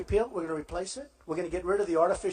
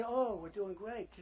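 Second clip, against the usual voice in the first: mocking quote; 7 dB quieter, slower than usual.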